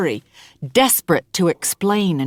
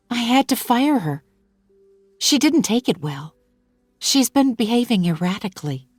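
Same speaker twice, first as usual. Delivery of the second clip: put-on a touch higher, worried young mother; slightly raised, fretful employer voice; lightly voiced Hannah; 5 semitones higher than usual. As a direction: voice her anxious and apologetic. Hannah speaks to narrator.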